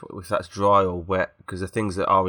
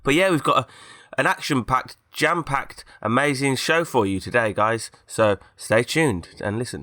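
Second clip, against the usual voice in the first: higher, put-on showbiz show announcement; hyped presenter voice; 4 semitones higher, slower than usual. Host plugs the show in a higher, false-sounding hype voice. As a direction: sell the show like a cheesy radio host, pitched up. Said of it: "That, that makes it sound false".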